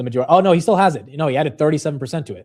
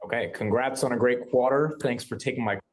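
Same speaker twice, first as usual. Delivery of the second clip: odd twang; 3 dB quieter than usual. Real, not acted. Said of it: "why did I say it like that?".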